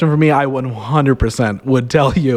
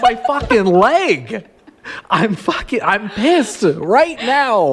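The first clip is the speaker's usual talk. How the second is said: higher, slow grumbling dog voice; grumpy dog voice; 6 semitones higher, much slower than usual. Retold or imitated. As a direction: voice the annoyed dog, dragging the words. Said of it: "He's like".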